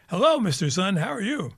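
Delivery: bright, lilting hello to the sun; a leader cheerfully greeting the morning sun; mock-sweet greeting; cheery greeting. Secretary General greets the sun.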